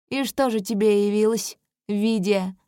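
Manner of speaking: contemptuous prince; spitting contempt. Acted. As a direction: spit the name out in disgust. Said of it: "будто выплёвывает это слово". (с презрением)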